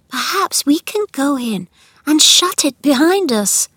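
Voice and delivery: put-on high, urgent girl's voice; pleading young girl. A narrator's reading. Mary persuades Colin to keep it secret, pleading. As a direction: coax earnestly in a girl's high voice.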